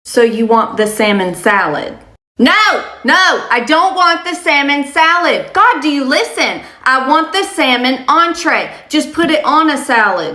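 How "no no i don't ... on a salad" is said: shrill Karen mock yelling; hammed-up customer yelling at the server. Karen yells at the server over a salad, mock shouting. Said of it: "if you scream at me again".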